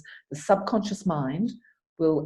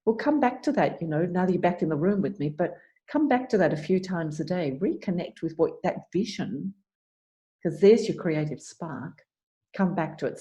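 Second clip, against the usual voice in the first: gentle coaching voice. Shown as a demonstration. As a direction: ease the client back, kindly. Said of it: "And then you just gently say".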